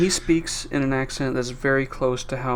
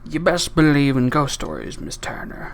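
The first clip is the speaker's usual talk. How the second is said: movie pirate line. Acted. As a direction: snarl it like a pirate captain. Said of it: "Ah, say that".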